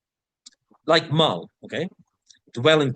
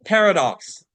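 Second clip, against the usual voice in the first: "paradox" pitched up and louder for students to copy; repeat-after-me model; 4 semitones higher, 5 dB louder than usual. Shown as a demonstration. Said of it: "Repeat after me".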